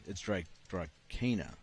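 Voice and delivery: slow Boston accent on the name. Real, not acted. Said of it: "My accent is coming through, my Boston accent".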